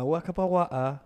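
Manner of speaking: slow, fake English babble; a hint of mock English; mock English gibberish. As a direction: imitate how English sounds to you. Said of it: "aprender a hablar".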